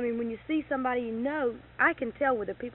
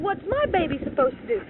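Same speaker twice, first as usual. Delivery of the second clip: indignant question; 9 semitones higher, 8 dB louder than usual. Retold or imitated. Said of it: "I said".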